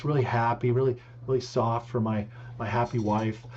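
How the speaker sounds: a light take on a gentle painter voice; lightly voiced soothing TV painter; mild gentle painter impression; Bob Ross. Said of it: "or I could do Bob Ross".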